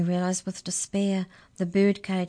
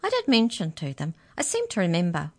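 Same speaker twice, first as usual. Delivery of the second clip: cheerful mouse. Acted. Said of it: "said the mouse cheerfully".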